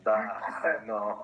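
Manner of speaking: slow put-on Russian accent; comic Russian accent. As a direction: drawl it in a fake Russian accent. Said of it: "Nicholas talking in a Russian accent".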